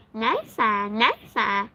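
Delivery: lightly voiced little mouse, pleased; a small mouse's happy exclaim; a hint of a squeaky mouse friend. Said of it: "Susie exclaimed".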